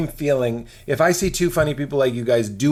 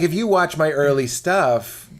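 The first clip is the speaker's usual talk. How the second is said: usual speaking voice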